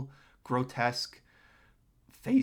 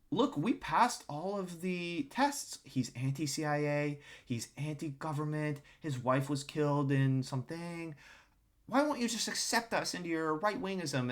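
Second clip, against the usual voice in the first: pleading protest; 3 semitones higher than usual. Retold or imitated. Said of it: "people like Carlson are saying".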